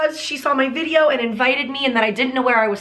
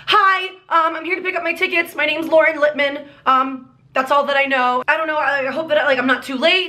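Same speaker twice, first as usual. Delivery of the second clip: higher, anxious retold greeting; anxious customer; 4 semitones higher than usual. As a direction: act out a nervous ticket pickup. Retold anxious talk at will call.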